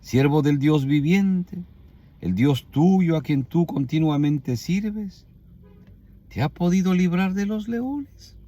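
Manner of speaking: slow mournful call with drawn-out endings; sad, weak voice. Acted. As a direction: plead feebly, lifting the last question. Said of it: "me imagino que fue así".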